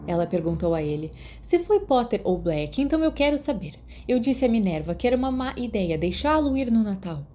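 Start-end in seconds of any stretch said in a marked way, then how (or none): 1.4-7.3 higher, raised fussy matron voice; a hint of a cross matron; irritated nurse. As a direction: scold like an annoyed school nurse.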